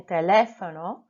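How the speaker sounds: teléfono stressed on the accented le; te-LÉ-fo-no, hit the accented E. Shown as a demonstration. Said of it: "emphasis on my accented E".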